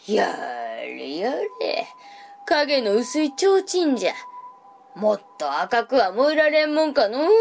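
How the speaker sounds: put-on weary old monk sighing; sighing old man. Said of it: "ため息をついた".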